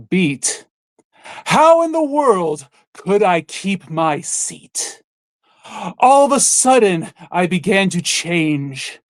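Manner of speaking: lines of a silly disco song read as grand poetry; mock dramatic reading. Host asks friend for a dramatic reading, mock-grand recital. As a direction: recite it like a solemn sonnet, tongue in cheek. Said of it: "could you add a bit of sophistication here with the one of your dramatic".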